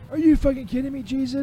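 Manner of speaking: loud, disbelieving yell; outraged shout. Acted. Peter learns the trip was pointless.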